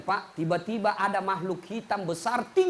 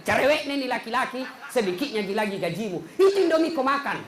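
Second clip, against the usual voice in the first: mock scolding wife; 2 semitones higher than usual. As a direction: brush him off like a nagging wife. Wife scolds hungry husband.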